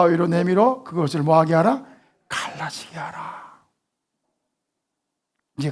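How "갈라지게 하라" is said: slow, soft whispered answer; whispered command. Shown as a demonstration. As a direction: hush the answer out.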